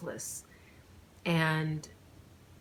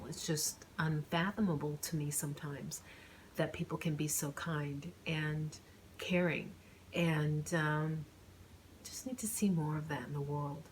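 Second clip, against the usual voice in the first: whispering; 2 semitones lower, 5 dB quieter than usual. Real, not acted. Moved, speaking of kindness.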